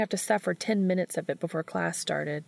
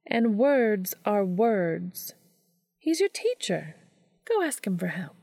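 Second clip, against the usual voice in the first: steely. A narrator's reading. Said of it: "letting some of her inner steel lace her voice".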